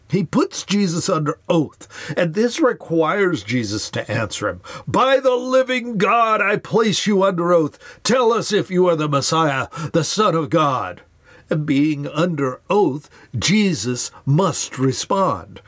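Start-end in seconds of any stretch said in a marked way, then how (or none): 4.9-11.0 raised, higher demanding voice; commanding high priest. Acted. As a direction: put him under oath with authority. High priest demands answer under oath.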